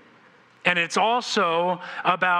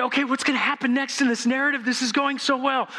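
eager reader; 7 semitones higher than usual. Retold or imitated. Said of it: "you're thinking".

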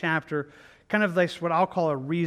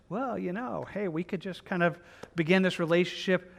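casual coaxing; 3 dB quieter than usual. Acted. Acting the tempter's casual invitation.

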